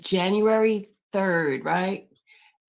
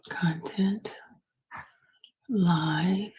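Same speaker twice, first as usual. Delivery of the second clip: whispering; much slower than usual. Real, not acted. Whispering menu words to herself.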